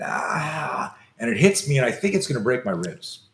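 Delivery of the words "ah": a short imitated yelp of fear; retold scream. Boy recalls screaming as the punch lands, mild mock scream. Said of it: "I hear myself screaming".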